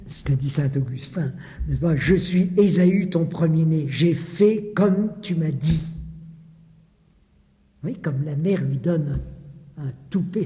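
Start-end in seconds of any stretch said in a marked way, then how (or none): 2.0-5.9 full voice. Shown as a demonstration. Same lie, read again.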